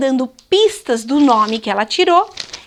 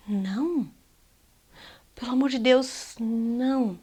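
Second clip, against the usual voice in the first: quiet earnest no; 9 dB quieter than usual. Real, not acted. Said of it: "emphatic refusal".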